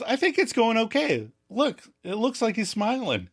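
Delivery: lightly voiced upbeat Joey. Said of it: "Joey goes".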